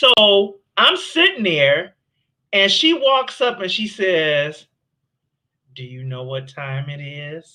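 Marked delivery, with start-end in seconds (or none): 5.7-7.6 hushed, very quiet, low, mocking voice. Retelling how a woman walked up and asked him the time, imitating a mocking low voice. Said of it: "With that mocking kind of low voice".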